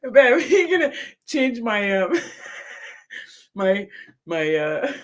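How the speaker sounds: high voice, giggling between words; asking her partner while laughing; laughing request. Real, not acted. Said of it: "laughing so hard".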